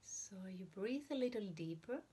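unhurried meditation guidance with long silent pauses; guided meditation. Real, not acted. Teacher guiding listeners to breathe and observe the heart, guided meditation. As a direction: ease listeners into breathing, leaving room between phrases.

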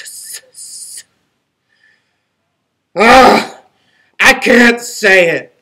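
a stuck, stuttering start that keeps breaking off; stammering struggle. Acted. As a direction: try to say it and choke on the s. Wolf struggles to say sorry.

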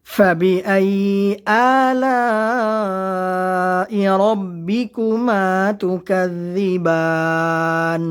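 slow, melodic Quran recitation. Shown as a demonstration. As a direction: chant each word slowly with long vowels. Recites verse slowly.

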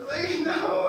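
high, loud laughing no; a loud, laughing refusal; emphatic no. Retold or imitated. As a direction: throw out a disbelieving, laughing no. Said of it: "and I'm just like".

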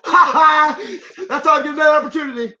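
laughing, high and fast; relieved laughter. Real, not acted. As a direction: laugh through the words. Laughs after touchdown.

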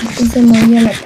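low and fast, run together; rapid low-pitched delivery; quick repeat. Real, not acted. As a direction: rattle it off low without a break. Quick repeat of slow sentence.

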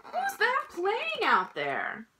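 high, slow call to the crowd; asking the crowd. Acted. A musician stops the band and asks the crowd. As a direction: stretch it out like a bandleader. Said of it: "asked the crowd".

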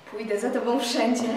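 ordinary delivery

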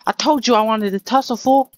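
high, loud tough-guy taunt; hammed-up street brawler calling out; tough-guy challenge. Streamer taunting the monster to a fight, loud and high.

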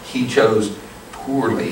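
slow, calm, quiet verdict; calm, slow delivery. Shown as a demonstration. Knight calmly passing judgment on the Nazi, slow and quiet. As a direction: let it land slowly and calmly. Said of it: "He didn't choose wisely".

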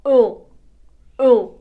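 a short isolated nasal «ен»; nasal E sound. Shown as a demonstration. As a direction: say «ен» as one nasal vowel, N silent. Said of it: "будемо читати як".

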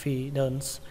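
FIDENCE dropped as unstressed syllables. Shown as a demonstration. Teacher showing the last syllables, voice going down. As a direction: let "fidence" fall away. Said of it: "Xuống giọng hai âm tiếp theo".

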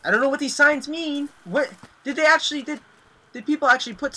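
loud, high frantic cry; panicked outburst. Real, not acted. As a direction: blurt it out in panic. Panicked reading of signs.

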